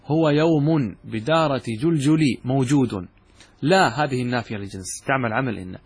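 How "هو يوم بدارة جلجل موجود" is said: slow, deliberate reading of the paraphrase; slow explanatory reading. Shown as a demonstration. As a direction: spell the meaning out word by word. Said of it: "كأنك قلت هكذا".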